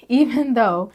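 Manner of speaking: breathless from laughing; out of breath. Real, not acted. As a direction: read it winded. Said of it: "I'm out of breath".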